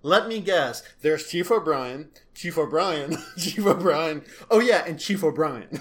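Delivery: mock listing of the only candidate; sarcastic guessing. Joker listing the same officer over and over for Riker, sarcastic guessing. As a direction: count them off with heavy sarcasm. Sarcastic list repeating one name.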